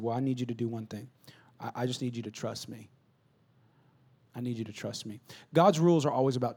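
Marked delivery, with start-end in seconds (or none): 0.0-5.2 1 gentle plea. Retold or imitated. Dad pleading gently with son.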